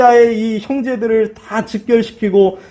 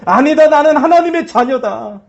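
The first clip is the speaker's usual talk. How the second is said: bold declaration; 2 semitones higher than usual. Shown as a demonstration. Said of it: "선포하면서".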